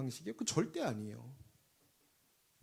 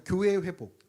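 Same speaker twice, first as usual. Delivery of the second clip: proclaiming call; 7 dB louder than usual. Acted. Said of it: "또 함께 선포합시다".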